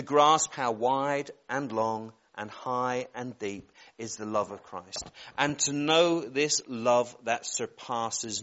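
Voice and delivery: slow, reverent Bible reading; scripture reading. Real, not acted. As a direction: read each phrase out with space around it. Reads scripture aloud.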